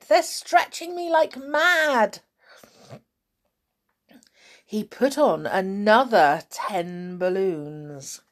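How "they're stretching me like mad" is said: high, excited wife's voice; Missus Twit voiced. A narrator's reading. Wife tied to balloons, high and excited. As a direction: gush about being stretched. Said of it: "cried Missus Twit".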